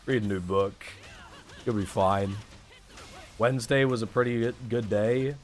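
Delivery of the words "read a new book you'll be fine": reassuring friend. Retold or imitated. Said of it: "I just need someone to be like".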